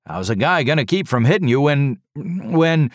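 high, loud, gushing relief; rush of words. A narrator's reading. Red-faced driver to the survivor, loud gushing rush. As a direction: babble it out in one rush. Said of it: "in a rush of words".

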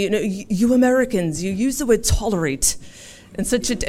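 a light imitation of an English accent. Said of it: "forgive my English accent".

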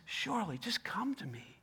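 whispered, unvoiced and soft; gentle whisper. Preacher voicing Jesus, whispering a soft invitation.

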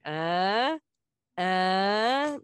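imitating a teasing dad up close; dad in my face. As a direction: lean in and needle with a grunt. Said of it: "real close to my face and being like".

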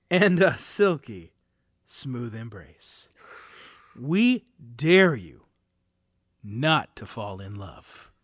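sultry, slow, dramatic wine-label read; campy drag queen. Pretend. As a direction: purr it like a glamorous drag queen. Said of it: "Great, great reading".

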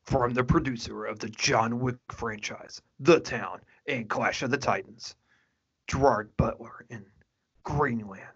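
movie trailer announcer voice. Shown as a demonstration. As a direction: read it like a trailer narrator. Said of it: "I'm gonna try and use my movie voice".

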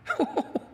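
soft, high little laugh; light high chuckle; amazed chuckle. Real, not acted. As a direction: chuckle quietly in wonder. Marvels at the connection.

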